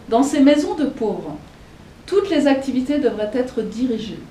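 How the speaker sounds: measured, formal reading voice; reading a quote aloud. Acted. Teacher reading Bentham's text to the audience, formal reading. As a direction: read the old text out to the audience.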